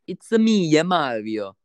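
mock cartoon Italian plumber; Mario. Shown as a demonstration. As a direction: put on a playful Italian game-hero voice. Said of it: "my keywords to get into different accents".

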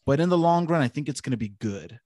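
slurring with a numb tongue; numb mouth slur. Real, not acted. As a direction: talk through a numb mouth after the dentist. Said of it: "a little more slurry than usual".

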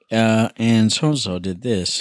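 flat, slow deadpan; dry deadpan. Retold or imitated. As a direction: deliver it bone dry. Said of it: "he's so dry and he just".

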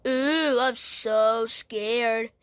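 slow, teasing mock fright; sarcastic fake fear. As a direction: pretend to be scared, mockingly. Mocking a threatening toy.

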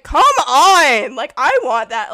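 put-on loud, high childish whine; whiny complaint. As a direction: complain like a jealous kid. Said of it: "and I was like".

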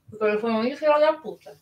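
talking while chewing fries; words round a mouthful; mouth full. Real, not acted. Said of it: "tô comendo porque não deu tempo de eu jantar".

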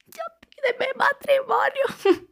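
high, slow playful whisper; mock whisper. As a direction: whisper a cheeky proposal. Joking proposal request.

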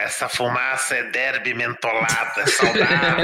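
raspy smoker villain voice; smoker's rasp. Acted. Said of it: "Aquela voz de fumante".

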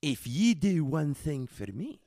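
slow, drawn-out Scottish plea; mock Scottish brogue, starting loud and fading; fake Scottish accent. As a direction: bargain slowly in a hammed-up Scottish accent. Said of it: "this is a fake accent".

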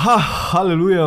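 high, exultant sigh of relief; mock hallelujah in relief; relieved exclamation. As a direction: exclaim it with lifted pitch. Retells relief that man is absent.

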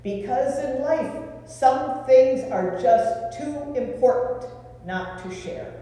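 put-on light German accent for the engineer. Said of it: "in a clipped German accent".

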